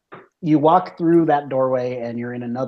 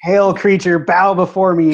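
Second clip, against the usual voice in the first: dark lord; 7 semitones higher, 8 dB louder than usual. Acted. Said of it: "And Diz says".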